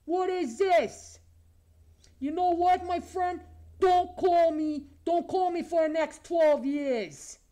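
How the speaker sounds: hammed-up hurt outrage, slow and emphatic; mock indignation. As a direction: play the wronged brother, drawing words out. Acted quarrel with the supposed brother.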